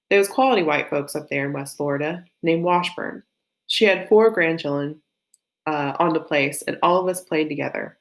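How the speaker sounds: Janie read with a hint of Southern accent; light Southern accent. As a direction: lean lightly into your own Southern accent. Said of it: "a little bit of my own Southern accent".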